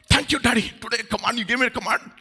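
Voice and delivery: lightly voiced eager, obedient child; mock grateful child. Preacher imitates child thanking Daddy for a command, mock grateful. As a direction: play an implausibly thankful kid. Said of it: "How many of your children said".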